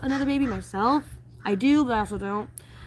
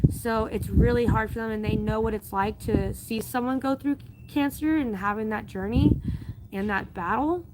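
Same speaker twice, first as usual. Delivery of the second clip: getting emotional. Real, not acted. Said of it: "Sorry, I'm getting emotional".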